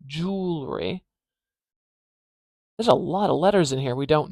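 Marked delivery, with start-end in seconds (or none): 0.1-1.0 "jewelry" said as JOOL-ree; "jewelry" with the l gliding straight into the r; "jewelry" without the middle vowel; two-syllable jewelry. Shown as a demonstration. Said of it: "if the next sound is a l".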